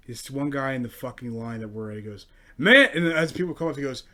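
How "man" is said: loud, higher eager voice; mocking eager man. Comic mocking an eager man in line, loud and chirpy. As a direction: play the over-keen old guy.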